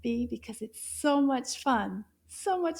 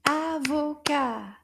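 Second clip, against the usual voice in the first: Avocat slow, in three strong beats; syllable by syllable; 4 dB louder, slower than usual. Shown as a demonstration. Teacher counting syllables with children, Avocat in slow separate beats. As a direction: beat out each syllable of Avocat. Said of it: "how many syllables do you hear".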